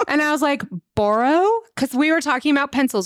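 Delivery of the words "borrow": "Borrow" with an OR vowel, BORE-oh; own pronunciation of borrow. Retold or imitated. Teacher answers a challenging kindergartner, "Borrow" said BORE-oh. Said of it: "call me out on how I say".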